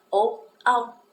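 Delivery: teacher stressing the L sound; dark L ending. Shown as a demonstration. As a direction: land hard on the final L. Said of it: "com um L mesmo".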